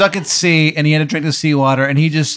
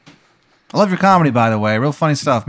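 higher-voiced, chatty priest character; battle priest; 6 semitones higher than usual. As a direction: play a casual priest at the door, voice raised. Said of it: "I'm a Catholic battle priest".

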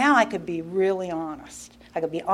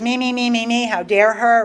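mildly huffy inner rant, a touch raised; mock indignation; 3 semitones higher, 3 dB louder than usual. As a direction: imitate your own self-centred resentment. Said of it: "So I was all mad".

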